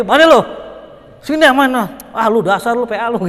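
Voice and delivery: preacher imitating Betawi friends trading loud teasing; rough Betawi banter. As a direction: bark friendly insults like a Betawi. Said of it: "Orang Betawi".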